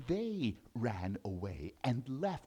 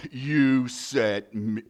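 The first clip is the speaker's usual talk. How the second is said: laughing disbelief; 2 semitones lower, 9 dB louder, much slower than usual. Acted. Lion disbelieving.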